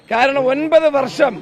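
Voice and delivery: slow, with ഒൻപത് punched high and loud; stress on nine years. Real, not acted. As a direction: hit ഒൻപത് hard and drag it out. Hammers nine years again.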